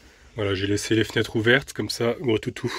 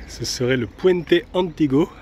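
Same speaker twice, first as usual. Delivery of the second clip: name the bridge in a slower, higher, louder mock Spanish accent; 4 semitones higher, 5 dB louder, slower than usual. Naming a Roman bridge for viewers, mock Spanish accent. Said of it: "Attention à mon accent espagnol".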